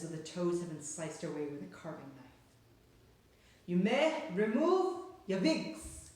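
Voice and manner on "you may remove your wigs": very slow, high, loud snarl; snarling witch. A narrator's reading. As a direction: spit the order like a snarling witch. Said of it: "snarled the Grand High Witch".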